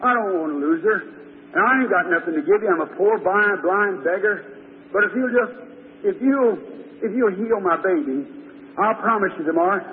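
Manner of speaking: low-pitched pleading prayer; poor blind beggar's earnest prayer; praying father. Acted. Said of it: "he went out and he prayed".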